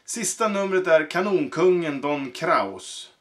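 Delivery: grand announcing of the star act; ringmaster announcement. Acted. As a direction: present the cannon king to the crowd. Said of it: "ropar direktör Bardino".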